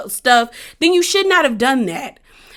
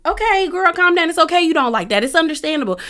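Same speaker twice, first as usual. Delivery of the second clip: high-pitched, placating singsong; mock soothing; 6 semitones higher than usual. Viewer tells upset Bree to calm down, mock soothing. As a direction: talk her down with exaggerated patience, pitched high.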